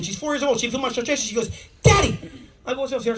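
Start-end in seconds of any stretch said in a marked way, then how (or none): 1.8-2.2 high, loud call; child's shout. Retold or imitated. Four-year-old daughter calling to dad, high loud shout.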